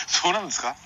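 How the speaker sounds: standard Japanese accent. Real, not acted. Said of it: "何標準語喋ってんね". (訛りのない標準語で)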